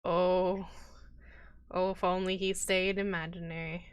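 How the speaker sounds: unvoiced aside whisper. Real, not acted. GM whispers a sly aside to the players, unvoiced.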